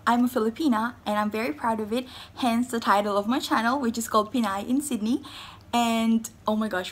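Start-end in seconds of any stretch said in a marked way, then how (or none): 0.1-5.2 rapid, eager rush of words; talking fast. Real, not acted. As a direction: race through it excitedly. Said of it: "why am I talking so fast?".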